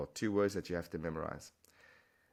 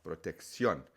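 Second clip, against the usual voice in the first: protección with emphasis on final -CIÓN; stress on end part; 2 semitones lower, slower than usual. Shown as a demonstration. Teacher demonstrates the accent, stress on final syllable. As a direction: say pro-tek-SYON for protección, weight on the end. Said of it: "the emphasis on that end part".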